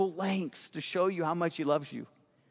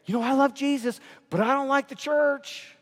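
higher, disbelieving repeat of the excuse; incredulous mock quote; 8 semitones higher than usual. Pastor throwing the excuse back at doubters, incredulous. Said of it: "How can you say".

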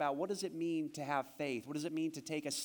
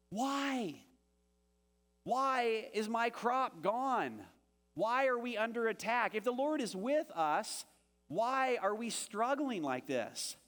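pleading Gideon; 5 semitones higher than usual. Acted. Pastor voices Gideon's complaint.

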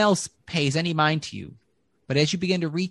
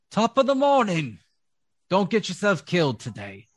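cheery halfling; 5 semitones higher than usual. Acted. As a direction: call out a jolly warning. GM voices passing halfling.

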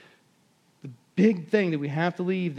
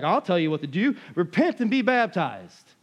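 bold command. Retold or imitated. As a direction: tell them what to do with force. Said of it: "So he's like".

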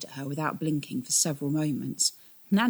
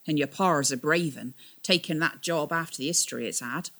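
lightly voiced old sailor, rustic; a hint of a weathered boatman. Old captain tells the twins about their father, lightly rustic.

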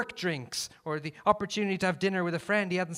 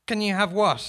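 shouting; 6 semitones higher, 7 dB louder than usual. Acted. Shouted exchange.

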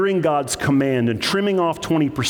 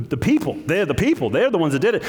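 blaming others; 4 semitones higher than usual. Acted. Acting Saul shifting blame onto others.

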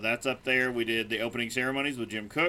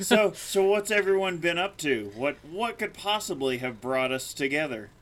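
groggy, worn-out morning-after voice; hungover; 3 semitones higher than usual. Real, not acted. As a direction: sound like the night was long. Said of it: "if we sound a little worse for wear".

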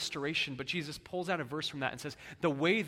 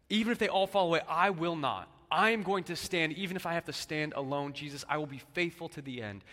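proud boast, louder and higher, fading at the end; Peter's boast; 3 semitones higher, 7 dB louder than usual. Acted. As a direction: play Peter swearing he'll never leave.

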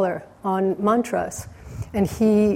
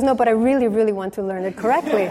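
quick and laughing, a little raised at the start; earnest plea broken by laughter; 3 semitones higher, faster than usual. Retold or imitated. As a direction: hermit laughingly insisting he learn the mantra correctly. Hermit pleading, laughing.

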